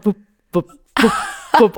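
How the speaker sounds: crisp imitated blips of names flipping; scoreboard bup sounds. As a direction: tap out each flip like a scoreboard tick.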